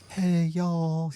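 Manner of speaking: put-on Southern-accented friendly call. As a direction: put on a light Southern twang. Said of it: "like a Southern accent".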